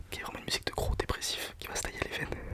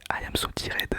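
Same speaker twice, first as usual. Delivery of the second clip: A song title read with a flat French accent, no English sounds; 5 dB louder, slower than usual. Shown as a demonstration. Giving a song title without the English accent, in a French accent. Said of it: "J'ai pas envie de faire l'accent anglais".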